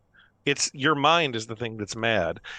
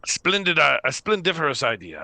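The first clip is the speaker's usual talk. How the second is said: lightly hammed-up approval; a touch higher, grand agreement; Leonard; 4 semitones higher, 3 dB louder than usual. Leonard agreeing to the plan, lightly hammed-up. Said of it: "says Leonard".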